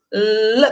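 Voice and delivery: "L" as the lone syllable lâm, held; isolated stressed syllable. Shown as a demonstration. Teacher answering which syllable is strongest, isolated syllable. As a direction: say only the strong opening syllable "L". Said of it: "quem é a mais forte?".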